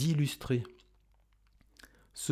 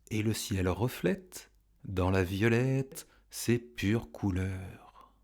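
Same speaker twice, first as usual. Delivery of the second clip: slow, measured poetry reading; poem recitation; 3 dB louder than usual. Acted. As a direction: recite it line by line with lifted, emphatic openings.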